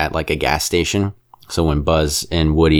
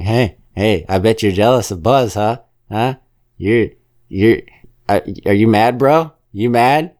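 higher, needling taunt, rising on each question; taunting Potato Head; 4 semitones higher than usual. Retold or imitated. Potato Head goading Woody about Buzz, mock taunt. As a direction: poke and goad like a schoolyard bully. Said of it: "he's always going to Woody like".

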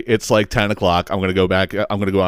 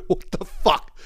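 breathy exasperated aside; 7 semitones higher, 6 dB quieter, much slower than usual. Retold or imitated.

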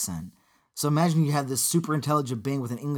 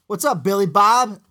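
hick greeting; 5 semitones higher, 7 dB louder than usual. Retold or imitated. Southerners greet the robot.

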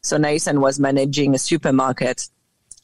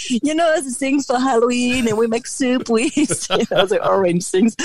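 higher, lightly acted hunt for the word; a touch of retold searching; 9 semitones higher than usual. Describing pumpkin to her dad, lightly acted searching. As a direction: replay groping for the word, half laughing. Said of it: "And I was like".

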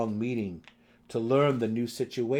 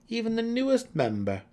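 sly joke; 13 semitones higher, 5 dB louder than usual. A narrator's reading. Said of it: "he added with a wink".

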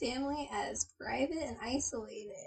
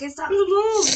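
watch voice; 7 semitones higher, 10 dB louder than usual. Retold or imitated. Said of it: "It's like".

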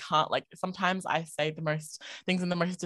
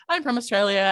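higher, louder protest; insistent self-quote; 6 semitones higher, 6 dB louder than usual. Retold or imitated. Guest replays telling people where she's from, mock insistent. Acting out being disbelieved about origin.

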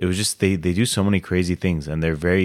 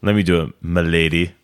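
lightly voiced cringey gentleman, milady; a hint of a courtly neckbeard; joking m'lady gallantry, barely changed voice; mock fedora guy. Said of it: "I should wear a fedora".

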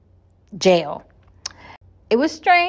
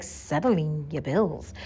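incredulous echo; 5 semitones lower, 8 dB quieter, much slower than usual. Retold or imitated. Echoing driver in disbelief.

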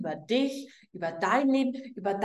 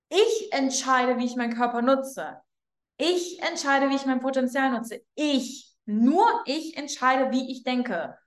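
slow, firm affirmation. Shown as a demonstration. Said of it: "Sag mal".

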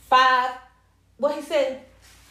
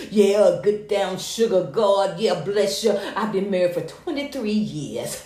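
slow, lower, laughing syrupy mimicry; bubbling brown sugar voice; 5 semitones lower, slower than usual. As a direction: lightly ham her honeyed podcast voice. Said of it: "bubbling brown sugar voice".

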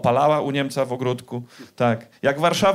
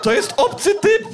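panicked inner voice. Retold or imitated. Comedian replaying his panic halfway to the jeweller, high mock squeal. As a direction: squeal it like sudden horror.

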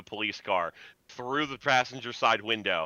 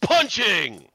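excited shout; 10 semitones higher, 10 dB louder than usual. Real, not acted. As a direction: shout it out high and loud. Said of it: "roll punching".

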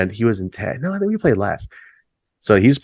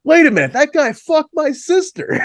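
heckler yelling. Retold or imitated. Guy at back of room heckling the singer, high mock yell. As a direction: shout it across the room like a drunk heckler. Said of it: "some dude in the back of the room just goes".

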